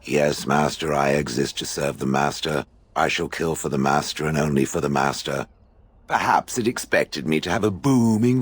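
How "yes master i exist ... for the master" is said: lower, even, servile drone of a dutiful golem; flatly mock the obedient servant; mock monotone. Golem mocking the Warden with an even servile drone. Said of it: "Should I talk in a monotone?".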